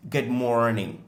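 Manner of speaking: Good morning with morning stressed. Shown as a demonstration. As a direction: push the word morning. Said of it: "l'accentuation est sur morning". (Good morning, accent sur morning)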